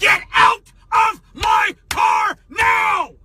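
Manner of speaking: loud sharp voice. Real, not acted. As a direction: bark the order out, furious. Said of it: "Why are you yelling at me?".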